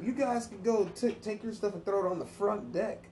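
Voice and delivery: high mocking voice for the drunk dad; hammed-up bossy stepdad.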